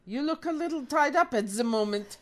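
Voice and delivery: tentative German villain; attempted German accent. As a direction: have another go at sounding German. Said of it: "make it sound like Yiddish".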